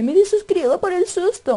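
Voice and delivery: mock a viewer quitting over a scare; mocking a scared viewer. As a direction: youtuber mocking a scared fan, lightly whiny. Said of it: "le dice".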